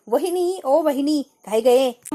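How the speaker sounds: aunt calling out to her sister-in-law from a distance; calling out from afar. Retold or imitated. काकू लांबून हाक मारतेय. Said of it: "काकू लांबूनच ओरडते".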